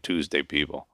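soft, quiet grinning echo; echoing his old professor, a quiet pleased grin. A narrator's reading. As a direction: say it back softly with a grin. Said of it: "I grinned".

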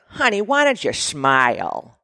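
lightly voiced condescending man; a hint of a patronizing barman; bartender. Bartender talking down to a woman, lightly mocking. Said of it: "this dude behind the bar is like".

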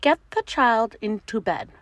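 eager, gurgling little monster; gurgling swamp creature. Acted. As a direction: gurgle it out proudly. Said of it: "teetered on his tiptoes and gurgled".

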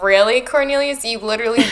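loud, high exasperated disbelief. Retold or imitated. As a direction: scoff at his nonsense. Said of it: "Dumbledore's like".

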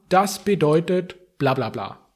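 normal talking voice

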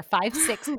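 five-sixths said cleanly and crisply; clear demonstration. Shown as a demonstration. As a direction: model the word five-sixths. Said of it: "trying to say the fraction".

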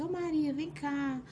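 mock chamado agudo da avó; avó chamando. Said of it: "a avó vai lá e fala assim". (avó chamando a neta, voz bem aguda)

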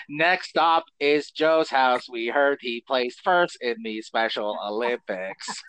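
slow, stiff alien envoy; Coneheads voice. Acted. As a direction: speak like a formal alien ambassador. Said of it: "that was their voice I was doing".

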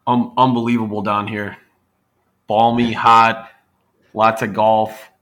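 mic right at the mouth; boomy, overloaded close-mic voice; too close to mic. Real, not acted. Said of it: "talking so close to the computer?".

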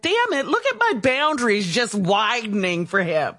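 half-laughing shout at herself; laughing mock outburst. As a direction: blurt it out through a laugh. Laughing at her own softening.

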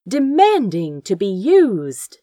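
usual speaking voice

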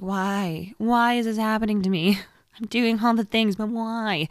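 mock despair at a scale that won't budge; exasperated why. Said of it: "And you're just like".

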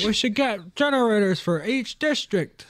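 high-pitched put-on Native American speech-making accent; mock Native American accent. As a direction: imitate a Native American speaker addressing a meeting. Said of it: "Why the fuck are we doing this accent".

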